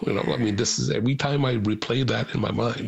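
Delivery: holding back tears while recalling it; tearful. Real, not acted. Reunited brother recalling his sister's words, tearful. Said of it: "I'm crying even right now".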